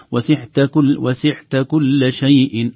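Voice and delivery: "وسعت" with a breathy ain close to ha; wrong pronunciation. Shown as a demonstration. Teacher shows the breathy ain error, chanted. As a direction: let breath run through the ain in "وسعت". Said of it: "تصبح".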